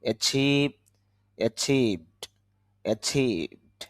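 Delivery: অ্যাচিভ and অ্যাচিভড with drawn-out "chee"; long ee vowel. Shown as a demonstration. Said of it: "টান হবে". (অ্যাচিভ, অ্যাচিভড-এ চি টেনে বলা)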